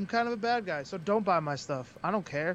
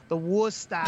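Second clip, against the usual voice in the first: imitated Boston accent on "Worcester"; Worcester said Boston-style, the r dropped at the end; gross Boston accent. Wrestler mocking how locals say Worcester, gross Boston accent. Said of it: "don't be coming at me with the".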